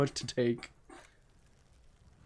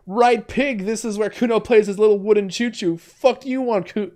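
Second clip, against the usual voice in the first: put-on high, brash kid voice; bratty kid voice, pitched up and cocky; Kuno the feral boy; 6 semitones higher, 4 dB louder than usual. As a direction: play a crude, cocky street kid. Kuno voice again.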